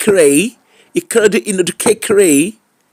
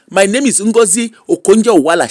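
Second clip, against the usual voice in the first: put-on Igbo accent; 2 semitones higher than usual. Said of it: "with her correct Igbo accent".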